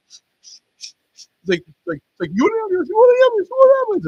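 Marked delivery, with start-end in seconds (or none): 0.1-0.9 whispered shushing; breathy shh, shh; Dave Foley shushing. Retold or imitated. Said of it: "the Dave Foley character goes". 2.3-4.1 much higher, louder mock yell; hammed-up sketch shriek of the question; yelling the same question again and again, far higher; Kevin McDonald character. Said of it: "It's the Kevin McDonald character".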